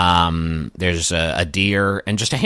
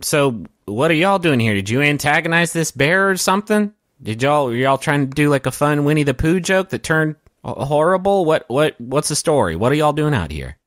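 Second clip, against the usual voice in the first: high-pitched ranger voice; 7 semitones higher than usual. Acted. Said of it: "she's like".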